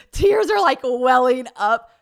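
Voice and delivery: high, loud, laughing delivery; laughing while telling. Real, not acted. Woman recalls tearing up after bar fight, laughing loudly.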